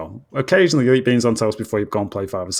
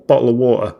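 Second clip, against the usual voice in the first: British "Bottle of water"; British pronunciation demo; 3 dB louder than usual. Shown as a demonstration. Teaching a co-host the normal phrase, British accent. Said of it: "the normal one".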